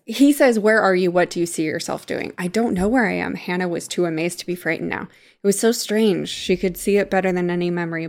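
audiobook-like reading with understated characters; story narration. A narrator's reading. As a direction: read the novel aloud, voicing the dialogue lightly. Reads a passage from the book.

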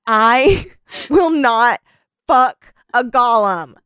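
slow, word-by-word emphasis with a laugh inside; heated vow. Real, not acted. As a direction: spell out the refusal slowly and firmly. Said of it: "I'm sorry I got so heated".

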